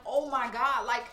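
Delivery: high, slow, baffled cry of disbelief; bewildered outburst. Retold or imitated. To herself mid-episode, startled and baffled, high and slow. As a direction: throw it up high, lost and confused. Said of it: "you be like".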